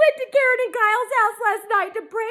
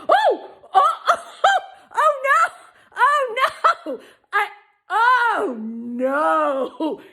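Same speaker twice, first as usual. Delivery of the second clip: horrified; 2 semitones lower, much slower than usual. Retold or imitated. Realising the phrase's real meaning.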